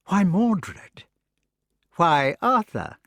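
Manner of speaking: high, slow, strained sick voice; wounded son mocking the king; feverish retort. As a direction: throw the names back feverishly.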